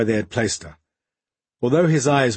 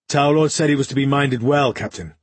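put-on Ilsalian accent; 3 semitones higher, 4 dB louder than usual. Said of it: "coloured by an Ilsalian accent".

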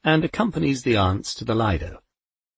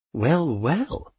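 calm; 5 semitones higher than usual. A narrator's reading. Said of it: "she said calmly".

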